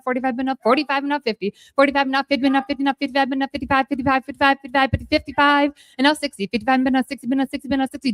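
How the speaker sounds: rapid rhythmic auction chant; auctioneer. Acted. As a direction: rattle off bids like an auctioneer. Auction chant during live auction.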